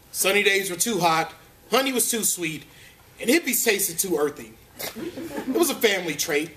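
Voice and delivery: mildly formal storybook reading, lifted from chat; understated deadpan story narrator; mock biography narration. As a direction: read it out like a tongue-in-cheek memoir introduction. Reads mock biography aloud.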